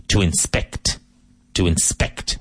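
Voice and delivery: "inspect" stressed on SPECT; second-syllable stress. Shown as a demonstration. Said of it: "emphasis on the second syllable".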